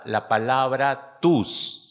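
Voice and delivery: slow, leaning hard on tus; stress on tus. Shown as a demonstration. Preacher to the congregation, slow stress on "tus". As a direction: draw out "tus" so it lands. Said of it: "El énfasis recae sobre la palabra tus".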